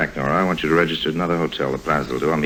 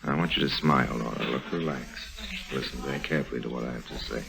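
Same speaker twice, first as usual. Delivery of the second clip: much softer, urgent, kept under his breath; hushed warning; 4 semitones lower, 9 dB quieter than usual. Acted. Lime warning Nora in a crowded bar, hushed and urgent. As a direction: talk low so nobody nearby hears.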